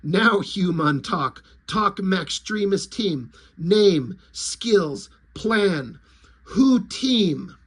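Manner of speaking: slow, broken caveman-like alien voice; a hint of a dim alien, slow and choppy; alien lizard speech. Alien lizard questioning the human, slow and broken. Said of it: "they're like".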